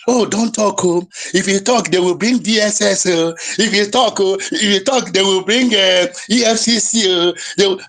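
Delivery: imitating timid people's warnings; mock worried pleading, repeating itself anxiously; mock fearful warning. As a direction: parody a nervous hush-up. Mimics fearful people urging silence.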